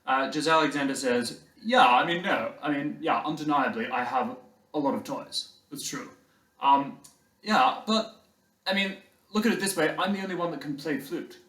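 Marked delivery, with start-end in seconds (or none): 1.6-11.4 put-on posh English boy's smug claim. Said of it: "he's very posh".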